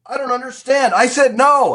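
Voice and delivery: high, loud, exasperated mock yell; retold angry protest. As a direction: play the man fed up at being ignored. Retold angry man throwing them out.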